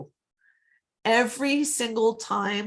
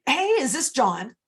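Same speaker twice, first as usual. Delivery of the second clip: friendly greeting; 4 semitones higher than usual. Shown as a demonstration. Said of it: "I'll say".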